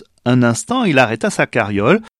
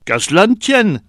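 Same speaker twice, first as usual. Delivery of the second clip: high, quick, kindly offer; eager old woman; 7 semitones higher, 3 dB louder than usual. A narrator's reading. Old woman quickly offers help, high and eager. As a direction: brush the problem aside at once. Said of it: "dit bien vite la vieille".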